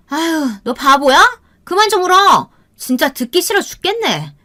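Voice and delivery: put-on high, irritated berating of a child; harsh scolding. A narrator's reading. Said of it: "계속해서 모진 소리를 이어갔어요". (모질게 짜증 내는 높은 목소리)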